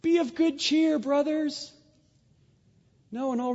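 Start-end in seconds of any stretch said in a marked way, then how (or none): 0.0-1.7 lightly voiced Jesus, pitched up and kind; a hint of Jesus calling over the waves; gently lifted voice of Jesus; calm Jesus. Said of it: "the ghost, or Jesus, says".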